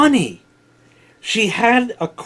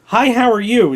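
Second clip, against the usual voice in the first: chirpy waitress greeting; 5 semitones higher, 3 dB louder than usual. Retold or imitated. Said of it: "is perfect, plain, everyday English".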